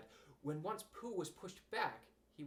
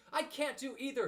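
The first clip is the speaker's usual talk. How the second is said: fretful; 10 semitones higher, 6 dB louder than usual. Acted. Pooh stuck, fretting.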